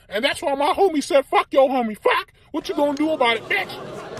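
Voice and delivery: high mocking girl voice; girl taunting. Girl taunting Shaggy on live, high mock taunt. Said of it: "so she says".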